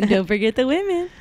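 gentle reminding first lady; Eleanor Roosevelt impression. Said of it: "my impression of Eleanor Roosevelt".

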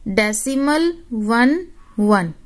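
डेसिमल one one, each one said as its own word, slowly; teacher slowly spelling out decimal one one digit by digit; digits read singly. Shown as a demonstration. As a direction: say one one as two separate digits, not eleven. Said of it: "इसको eleven नहीं बोलते".

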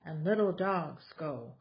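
lively, sing-song picture book reading; reading to children. Acted. Mom reading a board book to her kids, animated storytelling. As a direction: read it out like story time for toddlers.

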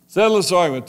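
pressing plea. Acted. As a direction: push the plea harder. Repeated plea, louder take.

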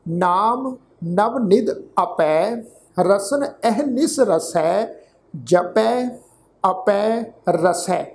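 drawn-out, measured chant of the verse; scripture read like a path; slow scripture recitation. Acted. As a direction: intone each word slowly, reverently.

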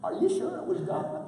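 high, quick skeptical wife. Retold or imitated. Sarah questions Abraham, quoted.

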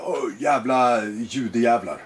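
slow, drawn-out sullen cursing; lightly voiced teen brat. Imitating a fifteen-year-old provoking adults, slow bratty cursing. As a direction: drag it out like a bratty teenager, lightly.

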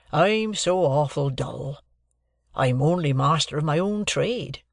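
humble blacksmith voice. Acted. Joe's voice, slow and humble.

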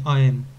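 teacher correcting آیم; آیم with a firm fall; corrected pronunciation. Shown as a demonstration. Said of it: "این آیم نیست دوست عزیز".

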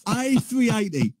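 high-pitched gushing impression of an aviation geek; imitated planespotter's rapture; excited planespotter. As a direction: gush like a thrilled live commentator, accent slightly off. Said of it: "he's got this really strong".

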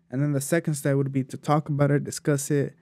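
winded, running short of air; out of breath. Real, not acted. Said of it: "I'm running out of breath".

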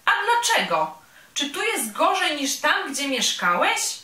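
a vain tiny bee showing off and teasing; a vain little bee mocking the big clumsy bear, high and bright; boastful little bee. Bee exclaims in surprise.

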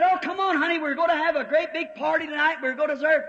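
preacher voicing a coaxing chicken. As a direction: lure him in like a chatty hen.

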